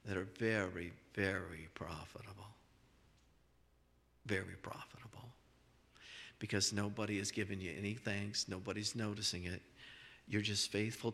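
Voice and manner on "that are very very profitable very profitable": hushed. Real, not acted. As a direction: drop it to a near whisper to drive the point home. Preacher drops to a hush.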